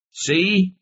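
very high exclamation, little added volume; understated narrated shout, high-pitched. A narrator's reading. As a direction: cry out in triumph, pitch shooting up. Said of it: "he shouted".

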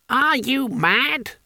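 high, stretched-out indignant outburst; enraged, crisp. A narrator's reading. Elderly law lecturer challenges the nomination, enraged. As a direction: fragile old pedant in a rage. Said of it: "clipped as topiary, crisp as biscuits".

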